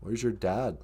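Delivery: half-convincing try at the movie character's accent; Thomas Builds a Fire. Shown as a demonstration. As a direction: have a go at his accent. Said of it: "I can do Thomas Builds a Fire accent".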